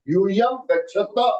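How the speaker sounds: gachatha with the tongue curled back on tha; retroflex ta. Shown as a demonstration. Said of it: "you have to turn your tongue and you have to say tha".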